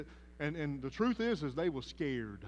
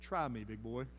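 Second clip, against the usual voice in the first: Bubba version; 6 semitones lower, 4 dB quieter than usual. Acted. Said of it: "the New King Bubba version".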